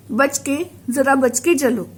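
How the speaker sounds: बचके said as a mild caution, falling at the end; बचके as a gentle spoken warning. Shown as a demonstration. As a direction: warn them lightly: बचके, watch your step. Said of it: "चेतावनी सूचक".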